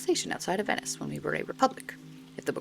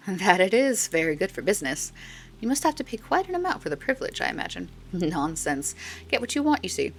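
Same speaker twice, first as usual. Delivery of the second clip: lightly hammed-up old woman charming a customer; old stall woman. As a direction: coo at the customer like a doting old vendor. Old stall woman voiced in game.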